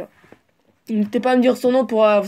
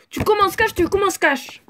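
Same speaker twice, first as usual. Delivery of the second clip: high mock teasing; 8 semitones higher than usual. To the coach, higher-pitched teasing mimicry. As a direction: repeat tu commences cash much higher, in a sing-song tease. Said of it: "Pourquoi j'ai fait ça".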